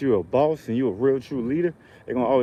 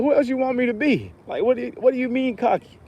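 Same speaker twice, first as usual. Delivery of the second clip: retold disbelief; 12 semitones higher than usual. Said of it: "It's like".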